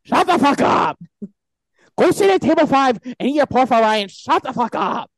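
high, mock Asian accent; hammed-up, badly faked Asian accent; put-on Asian accent. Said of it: "supposed to be an Asian accent".

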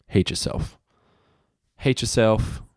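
breathy whispered aside. Shown as a demonstration. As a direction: whisper it darkly. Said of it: "whispered hate yourself".

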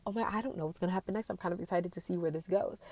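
quick, eager and giddy; breathless thrill of not knowing; excited. Retold or imitated. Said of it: "in excited anticipation".

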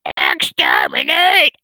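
a drawn-out, breathy whispered "Exterminate", slow; mock Dalek. Mocking the Daleks for his viewers, slow whispered robot cry. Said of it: "with an annoying, screechy voice".

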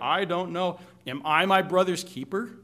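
snippy sarcasm with a rise on my; a lightly voiced sarcastic Cain dodging God. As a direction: toss the question back at God with mild scorn. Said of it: "you can hear the undertones in what he's saying".

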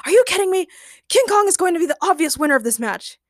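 high, incredulous protest; aghast. A narrator's reading. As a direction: object in loud disbelief. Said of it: "Ray gasped, aghast".

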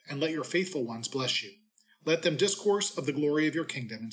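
measured, formal scripture reading; a lector reading scripture aloud; lectionary reading. Acted. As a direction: proclaim the readings at Mass. Liturgical scripture reading at Mass.

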